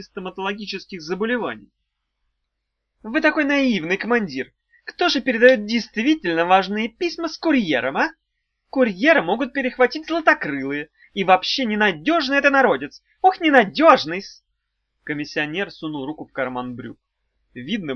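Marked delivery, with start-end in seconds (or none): 3.1-14.4 high, loud syrupy flattery; butter up the commander with a sly grin; obsequious fawning. A narrator's reading. Imp fawns on the commander about unreliable couriers.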